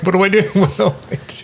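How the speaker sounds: high-pitched, loud comic fluster; mock panic. Guitarist retelling freezing onstage, mock panic. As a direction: act out helpless alarm, voice shooting up.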